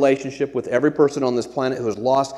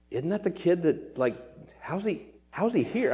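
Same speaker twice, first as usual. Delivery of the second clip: surprised players; 5 semitones higher, 7 dB quieter than usual. Retold or imitated. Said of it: "looking over at Jaden and going".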